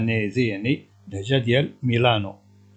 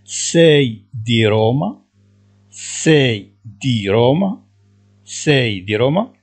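each syllable drawn out, slowly; slow dictation; 5 dB louder, slower than usual. Shown as a demonstration. Teacher to Moroccan students, slowly dictating Italian. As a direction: spell it out slowly for learners. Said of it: "teacher repeating Italian phrase".

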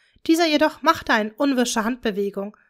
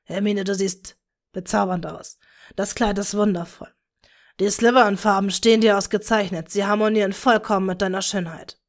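gentle father; 2 semitones lower than usual. Acted. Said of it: "sagte er sanft". (sanfter Vater, leicht tiefer)

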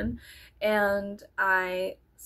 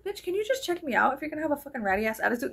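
mock sassy rant; 5 semitones higher, much faster than usual. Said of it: "And I was like".

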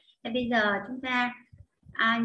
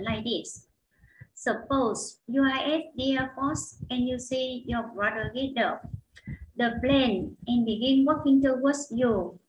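slow, careful English reading; textbook read-aloud; slower than usual. Acted. Teacher reads the lesson passage aloud for students. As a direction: read it clearly for learners to follow.

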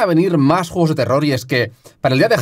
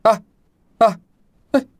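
demo yelps; 7 semitones higher than usual. Shown as a demonstration. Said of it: "pero a la que hablo".

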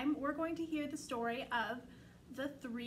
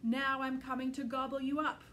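roaring troll; 5 dB louder than usual. Acted. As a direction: roar it out like a troll. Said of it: "roared the troll".

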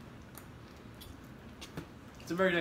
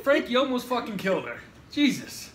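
louder, higher exclamation with a laugh; half-laughing rebuke of Frank; laughing scold; 7 semitones higher, 7 dB louder than usual. Real, not acted. Scolding after the choking scare.

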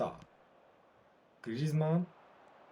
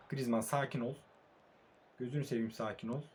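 urging calm; 2 semitones lower, 8 dB quieter than usual. Real, not acted. Calming his player mid-attack.

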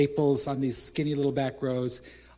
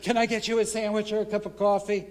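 eager offer; 7 semitones higher than usual. Retold or imitated. Overly eager apology.

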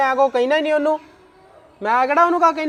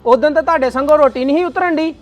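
angry accusing; 5 dB louder than usual. Acted. Husband accuses in-laws in a quarrel.

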